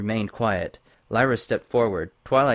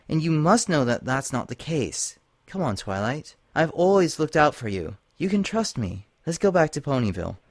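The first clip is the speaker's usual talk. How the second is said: higher, earnest pony voice urging unity; Lyra pleading; 5 semitones higher than usual. Acted. Lyra urging Twilight to face the princess together, higher and pleading. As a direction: coax a frightened friend to come along.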